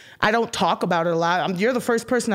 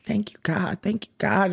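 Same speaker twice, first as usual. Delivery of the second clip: whispered prayer. Retold or imitated. Retelling a grateful prayer after waking, whispered. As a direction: breathe the thanks, barely voiced. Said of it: "over and over, I was like".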